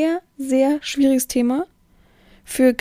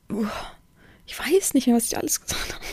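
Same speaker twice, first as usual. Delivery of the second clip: whispered aside; 5 dB quieter than usual. Real, not acted.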